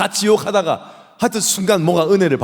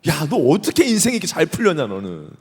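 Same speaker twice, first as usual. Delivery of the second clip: amazed questioning; 2 semitones higher than usual. Acted. Old pastor quizzing the robber in heaven, amazed. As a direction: ask a lucky friend how he pulled it off. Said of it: "물어보고 싶다는 거예요".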